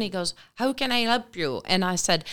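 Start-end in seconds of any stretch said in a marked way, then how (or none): 0.6-1.6 lightly voiced Irish accent, higher pitch; a touch of Irish accent. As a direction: imitate an Irishman greeting someone in a lilting Irish accent. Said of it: "So in this Irish accent".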